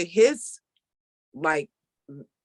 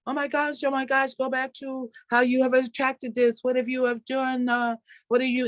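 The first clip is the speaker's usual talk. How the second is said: high, frantic mock of her old panicked self; 8 semitones higher than usual. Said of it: "my old script was".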